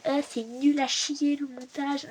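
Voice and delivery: slow whiny moan about editing; mock complaining. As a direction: drag it out like a sulky complaint. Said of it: "je me mets à être en mode".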